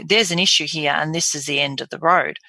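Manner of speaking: grave, final delivery; scary. Shown as a demonstration. Doctor giving a patient difficult news, scary. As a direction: deliver bad news as a dead end. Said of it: "it can sound very scary".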